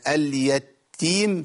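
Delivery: اليتيم with a light, unstressed taa, slowly. Shown as a demonstration. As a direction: say اليتيم without doubling the taa. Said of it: "في ناس كتير شددت التاء".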